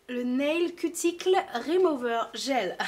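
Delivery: English product name read in a thick French accent; cheap French accent. Real, not acted. Reading an English product name to viewers in a self-mocking French accent. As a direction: say "le nail cuticle remover gel" in clumsy French-accented English. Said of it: "Avec mon accent à deux balles".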